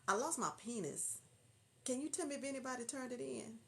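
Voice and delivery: soft, halting mock phone caller; sheepish caller. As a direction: pretend to confess it quietly on the phone. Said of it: "you thinking somebody calling on phone talking about".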